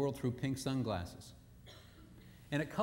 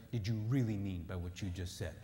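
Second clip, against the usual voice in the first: whispered, lower, distrustful; suspicious whisper; 7 semitones lower, 4 dB quieter than usual. Acted. Inner suspicious question.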